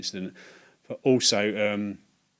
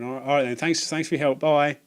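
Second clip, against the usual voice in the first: lightly voiced old lady; 5 semitones higher, 4 dB louder than usual.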